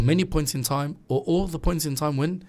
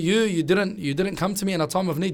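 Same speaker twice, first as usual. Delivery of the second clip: higher-pitched, mildly indignant guilt-trip; play-acted complaint, pitched up; mock reproach; 4 semitones higher than usual. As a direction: imitate someone nagging over an old favour. Acted reproach of someone helped before.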